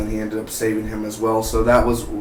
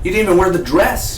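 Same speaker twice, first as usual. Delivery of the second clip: higher-pitched acted complaint; mock reproach; 7 semitones higher, 4 dB louder, faster than usual. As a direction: raise the pitch as if playing someone slighted. Acted reproach over the dress.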